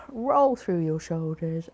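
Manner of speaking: slow, loud, rousing instruction; energetic and loud. Shown as a demonstration. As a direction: wake the room up. Energising cue after meditation.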